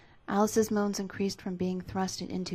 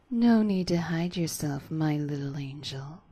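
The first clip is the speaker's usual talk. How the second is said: seductive; 5 dB louder than usual. Acted. Bendy reassuring Alice, slow and seductive, ending whispered. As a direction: coax her slowly, ending in a whisper. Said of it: "he said in a more seductive tone".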